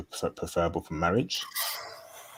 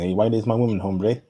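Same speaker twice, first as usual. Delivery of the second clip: playful Mexican accent put on; jokey Mexican accent; 3 semitones higher, 4 dB louder than usual. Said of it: "saying that in a Mexican accent".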